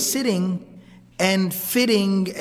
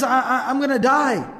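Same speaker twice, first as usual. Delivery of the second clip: higher, stammered mock panic; retold panicked cry; 4 semitones higher than usual. Man tells his family of his fate, retold panicked cry. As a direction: imitate a stuttering cry of fear. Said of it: "And he keeps on screaming".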